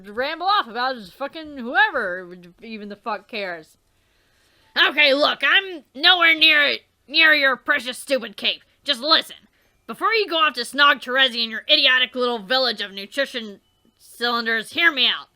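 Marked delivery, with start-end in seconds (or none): 4.9-15.3 louder, insistent angry plea; heated yelling. Acted. Character shouts at Dave to listen, exasperated. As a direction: hammer the point home in exasperation. Character pleading loudly in argument.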